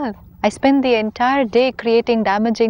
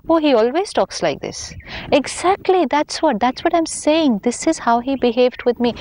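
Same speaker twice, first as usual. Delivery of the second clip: mock gossip, voice jumping high with excitement; gossipy agreement; 5 semitones higher than usual. Gossiping friends egging each other on, mock excited agreement. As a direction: play the friend eagerly piling on.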